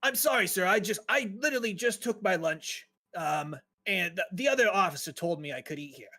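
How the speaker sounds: put-on nervous, apologetic young dwarf, a bit high; timid dwarf guard voice. Young dwarf caught eating apologizes nervously to the inspector, meek voice.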